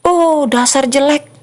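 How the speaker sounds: accusing. Acted. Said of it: "suka menuding teman-temannya".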